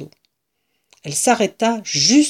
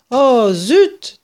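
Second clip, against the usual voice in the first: disappointed exclamation; 6 semitones higher, 7 dB louder than usual. A narrator's reading. Woman disappointed over the tail.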